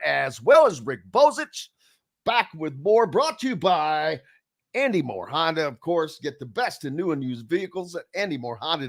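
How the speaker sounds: upbeat radio host read, punchy at the start; radio break tease. Acted. Host sends listeners to a break with sponsor plugs, announcer read. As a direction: sell the sponsors and tease what's next.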